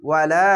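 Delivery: "ওয়ালা" with the final লা held long; one-alif stretch. Shown as a demonstration. Teacher demonstrating the alif, "ওয়ালা" with long লা. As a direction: draw out the end of "ওয়ালা". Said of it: "এক আলিফ টেনে পড়বেন".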